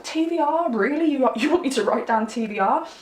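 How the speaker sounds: baffled, rising disbelief; incredulous. Retold or imitated. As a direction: ask it like you can't believe it. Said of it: "And I was like".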